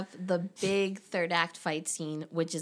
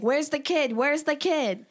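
mock panic; 8 semitones higher, 4 dB louder, slower than usual. Heroines panicking in retold scene.

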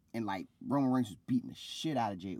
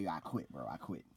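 defeated surrender; 5 semitones lower, 8 dB quieter than usual. Retold or imitated. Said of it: "so he's like".

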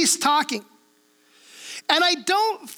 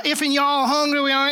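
mock Southern church-lady invite; southern accent. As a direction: tease the Southern twang without overdoing it. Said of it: "imitate that southern accent".

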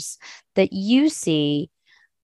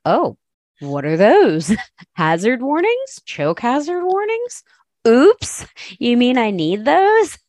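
surprised; 4 semitones higher, 3 dB louder than usual. Retold or imitated. Retelling his naive early self.

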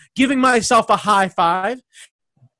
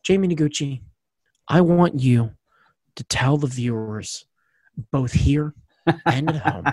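dramatic announcer; 7 semitones lower than usual. Pretend. Hammed-up low announcer.

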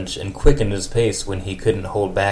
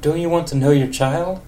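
put-on high wavering old lady voice; 7 semitones higher than usual. Old lady Marge answers Ned after their night. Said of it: "old lady for Marge".

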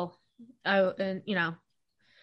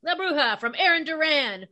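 higher radio announcer hype; monster truck announcer; 5 semitones higher than usual. Pretend. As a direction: sell it like a rally ad. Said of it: "Monster Truck Rally announcer voice".

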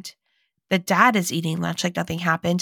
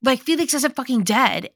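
higher-pitched, mildly incredulous protest; retold exasperated outburst; 5 semitones higher than usual. Cousin protesting to the family over lunch, retold with mild exasperation. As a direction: imitate a cousin fed up with the pretence.

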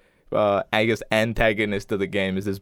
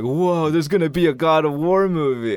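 higher-pitched imitation of an amazed kid; mock-awed, raised voice; retold excitement; 6 semitones higher, 4 dB louder than usual. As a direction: relive a middle-schooler's hype, pitched up. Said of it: "being like, "Whoa".

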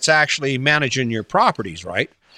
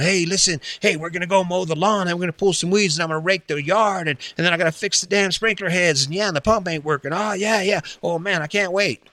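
mock excitement; 4 semitones higher than usual. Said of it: "all excited, going".

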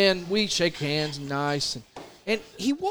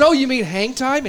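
mock chuckle; 5 semitones higher, 4 dB louder than usual. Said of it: "I probably did chuckle just a bit".

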